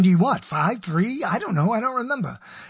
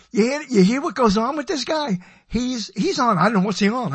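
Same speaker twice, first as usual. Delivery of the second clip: listener to friend; 3 semitones higher than usual. Retold or imitated. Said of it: "You're going".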